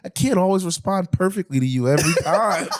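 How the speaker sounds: high, mock-defensive protest; defensive girlfriend. Girlfriend excusing her tone to her boyfriend, mock-defensive. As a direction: imitate an exasperated girlfriend justifying herself. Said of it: "she just hit me with that girl logic".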